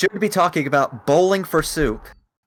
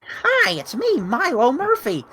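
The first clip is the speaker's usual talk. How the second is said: high, bright cartoon kid voice; Milo Murphy; 8 semitones higher than usual. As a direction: play a self-pitying cartoon boy.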